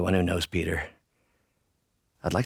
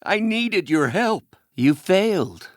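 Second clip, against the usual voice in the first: high, loud, anguished reproach; betrayed outburst; bitter accusation; 11 semitones higher, 5 dB louder, slower than usual. Acted. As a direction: raise your voice and accuse. Accusing someone who let him down.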